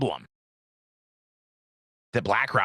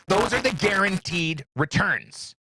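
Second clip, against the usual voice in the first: mock elite voice; 6 semitones higher than usual.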